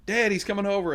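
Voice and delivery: imitated daughter, high-pitched call; daughter calling dad. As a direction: announce it as a teen girl calling her father. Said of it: "and she'd go".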